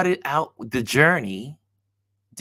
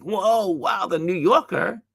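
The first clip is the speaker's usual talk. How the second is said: higher, mild mock scream of awe; restrained excited wow, pitched up; retold inner scream; 6 semitones higher than usual. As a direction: imitate screaming inwardly with excitement. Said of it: "in my head, I was screaming like crazy".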